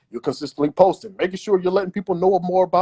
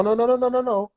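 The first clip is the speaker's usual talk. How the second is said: higher, insistent string of nos; emphatic no; 8 semitones higher than usual. Real, not acted. Telling listeners not to wait to be picked, insistent higher nos. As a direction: shut the idea down firmly. Rejecting a wrong mindset.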